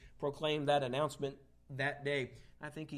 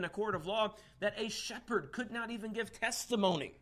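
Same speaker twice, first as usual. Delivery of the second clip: raised, higher preaching voice; emphatic preaching; 6 semitones higher, 5 dB louder than usual. Real, not acted. Preacher telling church about distrusted shepherds, emphatic. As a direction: press the point to the congregation.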